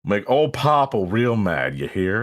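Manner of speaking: slow country drawl; a slow, folksy country accent. Acted. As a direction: put on a lazy country twang. Mock country talk for Popple.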